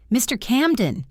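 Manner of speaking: startled, worried exclamation; alarmed cry. Acted. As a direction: call out to someone collapsing. Cook cries out as employer collapses.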